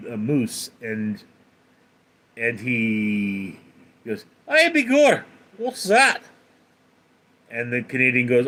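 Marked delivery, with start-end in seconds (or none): 4.5-6.2 high, loud mock-Scottish exclamation; Scotsman, Scottish accent. Scotsman in a joke spotting a moose, loud mock Scottish accent. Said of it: "this Scotsman goes to Canada".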